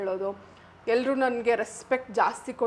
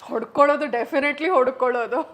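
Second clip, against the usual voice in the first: excited laugh; 5 dB louder than usual. Real, not acted.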